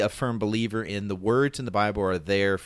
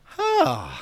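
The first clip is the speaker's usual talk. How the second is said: "Huh" popped out much higher, short and airy; positive sigh attempt; 3 dB louder than usual. Shown as a demonstration. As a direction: try a happy sigh on "Huh", high and quick. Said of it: "a deep sigh that's like".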